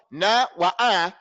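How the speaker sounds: slow, equal open vowels in "na" and "a"; matched vowels. Shown as a demonstration. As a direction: give "na" and "a" the same full sound. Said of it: "This na and this a has to be the same".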